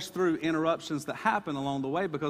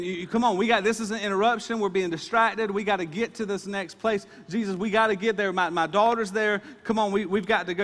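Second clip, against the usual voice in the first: higher, louder hurried pleading; urgent Jairus; 6 semitones higher, 4 dB louder than usual. Retold or imitated. Jairus pressing Jesus to leave the crowd, urgent. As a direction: rush him along, no time to lose.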